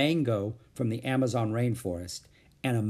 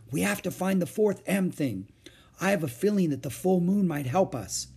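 higher-pitched eager little sister; lightly voiced Annie; 7 semitones higher than usual.

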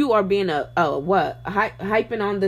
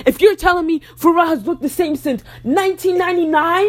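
louder, emphatic disbelief; indignant rant; 7 semitones higher, 5 dB louder than usual. Real, not acted. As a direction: call them out, loud and incredulous.

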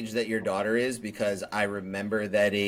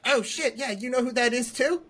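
higher, delighted surprise; surprised; 13 semitones higher than usual. Retold or imitated. Her reaction to strangers knowing her friend, surprised. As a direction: react as if stunned by the coincidence. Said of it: "I'm like".

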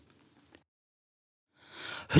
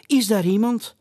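higher, raised call into the castle; 10 semitones higher, 3 dB louder than usual. Acted. Owl calling into the dark castle, raised voice. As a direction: call out into the empty ruins. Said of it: "riep Josse".

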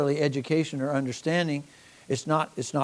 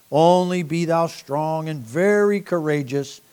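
a touch louder, measured scripture reading; 4 dB louder than usual. Acted. Preacher reading Joshua to the congregation, proclaiming. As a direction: read the verses out to the congregation. Reads Joshua chapter one aloud.

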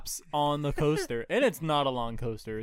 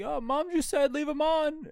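high-pitched defensive reply; retold protest; 3 dB louder than usual.

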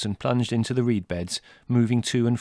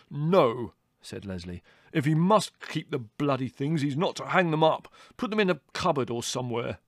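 curt refusal; 5 semitones higher than usual. Acted. Brother overrules.

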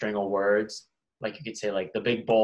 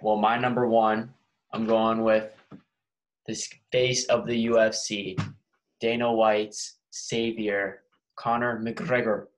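slow, drawn-out bad Irish accent; a hint of a mock Irish announcer; 4 dB louder, slower than usual. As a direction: announce him in a hammed-up Irish brogue. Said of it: "That was a bad Irish accent".

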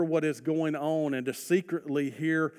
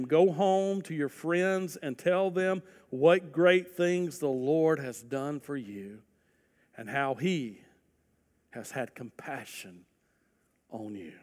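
gentle charge. Acted. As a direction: send him home tenderly.

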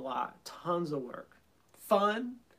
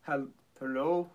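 hand over mouth. Shown as a demonstration. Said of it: "let me give you an example of what that means".

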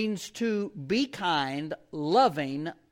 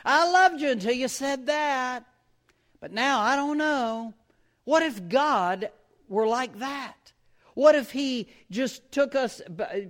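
a hint of a fickle, offended voice, raised; fickle God; 4 semitones higher, 3 dB louder than usual. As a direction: play a god whose love wavers, pitched up. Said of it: "He could decide right away".

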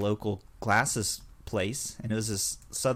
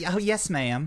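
effeminate phone voice; 6 semitones higher than usual. Retold or imitated. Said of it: "I turn very effeminate".

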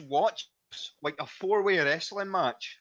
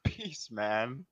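nicest way possible; 5 semitones lower, 5 dB quieter than usual. Retold or imitated. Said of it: "in the nicest way possible".

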